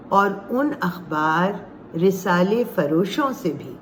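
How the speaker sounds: measured recital with pauses between phrases; poem recitation. Acted. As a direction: recite it line by line, lingering on key words.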